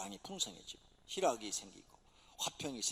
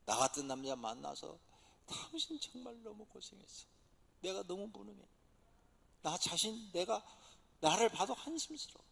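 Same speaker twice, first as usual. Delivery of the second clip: tearful apology. Retold or imitated. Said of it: "막 펑펑 울면서 막 진심으로".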